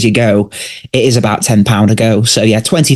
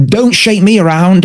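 mock protest; 7 semitones higher than usual. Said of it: "it's like".

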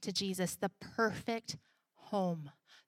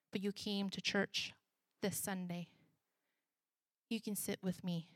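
tender reading; 3 dB quieter than usual. Acted. Pastor reading a Facebook post to the congregation, tender and soft. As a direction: read it gently like a promise. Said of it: "I'm gonna read it".

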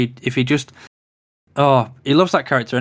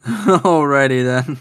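catchphrase impression; 4 dB louder, much slower than usual. Quoting Ace Ventura catchphrase.

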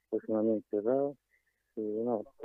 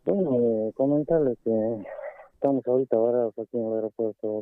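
through a face mask; 4 dB louder than usual. Real, not acted. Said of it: "estoy con una máscara y entonces es complicado hablar".

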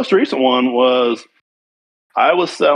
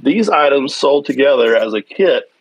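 reading a letter aloud. Real, not acted. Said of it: "I'm gonna read you the part".

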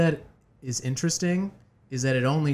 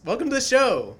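higher-pitched show-opening welcome; hosting flourish, voice pitched up; 11 semitones higher, 3 dB louder than usual. Acted. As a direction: announce the guest with a lift. Host announces the guest's entrance.

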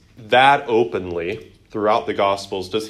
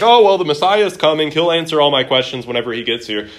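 chirpy retold woman; 5 semitones higher, 9 dB louder, faster than usual. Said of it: "she's like".

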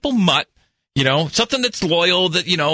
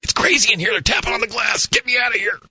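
pleading dog voice; 7 semitones higher than usual. Pretend. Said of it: "Like it's pointing, like".

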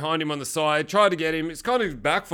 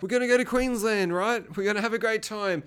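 imitated dying woman; 5 semitones higher than usual. Voices dying Claire to Dean.

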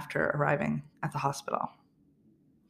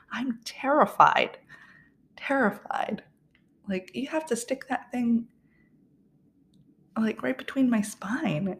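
mild mock sobbing, pitched up; retold crying; 6 semitones higher than usual. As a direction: wail it like you're crying at the needle. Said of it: "like, bawling".

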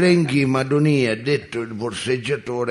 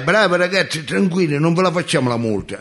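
calling out; 6 semitones higher, faster than usual. Retold or imitated. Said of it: "ci urlai".

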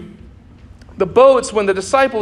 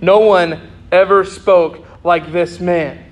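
slow emphatic; slower than usual. Real, not acted. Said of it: "this is our main point".

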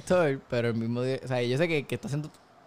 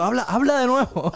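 mock angry; 6 semitones higher than usual. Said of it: "bien molesto".

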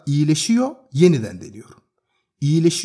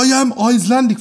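imitating the Icelandic man; 8 semitones higher, 4 dB louder, faster than usual.

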